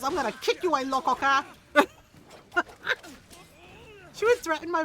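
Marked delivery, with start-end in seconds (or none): 0.0-1.4 imitating mom. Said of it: "as my mom says".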